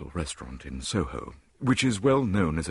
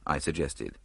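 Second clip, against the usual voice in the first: usual speaking voice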